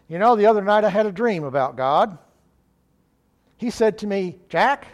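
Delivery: mild impression of a deadpan comedian setting up a joke; Jack Benny. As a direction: retell a comic's anecdote, lifting into the punch word. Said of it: "in true Benny form".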